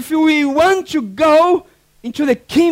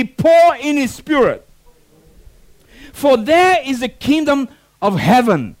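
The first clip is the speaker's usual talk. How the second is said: call and response. Shown as a demonstration. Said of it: "Say with me".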